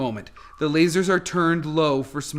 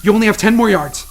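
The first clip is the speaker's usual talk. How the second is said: rising urgent calls, getting louder; 6 dB louder than usual. Acted. Controller urges Mary through the gas, urgent calls. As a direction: push her on through the gas. Guiding her through laser fire.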